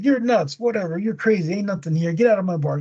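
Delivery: retold brush-off, starting high and settling; mock dismissive. New bar owner throws out a random guy, mock dismissive. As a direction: wave him off in a lightly acted huff.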